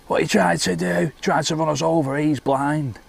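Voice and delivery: high, put-on outraged retelling; retold heckle. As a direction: call out indignantly, acting out the bloke's complaint. Acted shouting at bus driver.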